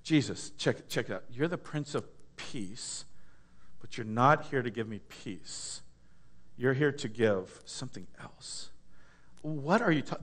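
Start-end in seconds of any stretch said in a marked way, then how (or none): 0.0-8.7 mock complaint. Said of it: "And you're like".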